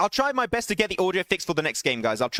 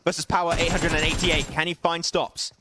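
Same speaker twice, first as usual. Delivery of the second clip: energetic esports caster calling the action; live play-by-play. Acted. Caster calling Svan's clutch for stream viewers, live play-by-play. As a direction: narrate the fight as it happens, rising at the clutch. Casting a battle royale match.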